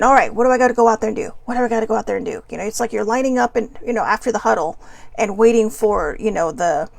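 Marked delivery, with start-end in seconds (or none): 0.0-2.4 mock eager rush. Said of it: "we're thinking".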